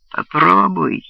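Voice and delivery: high, loud, rising rat shriek; shrill rat squeal. Acted. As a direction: screech it, closing in. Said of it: "визжал крысиный пронзительный голос Хустона".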